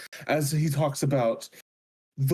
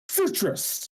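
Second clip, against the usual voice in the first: grand proclamation; 10 semitones higher than usual. Acted. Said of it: "grand proclamations".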